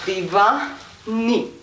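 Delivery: slow, stretched "Divani"; slow rhythmic demonstration; drawn-out lyric cue. Shown as a demonstration. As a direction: spread the syllables across the move. Repeats lyric over slow move.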